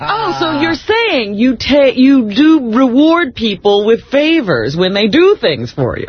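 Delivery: slow, mock-incredulous question; drawn out sarcastic challenge. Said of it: "I'm like".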